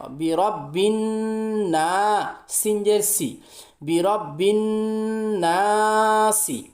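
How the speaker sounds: slow syllable-by-syllable spelling chant; spelling recitation. Shown as a demonstration. Teacher spells the verse for pupils, slow chant. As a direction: spell each letter, then blend. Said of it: "এবার আমি প্রথম line থেকে বানান করব".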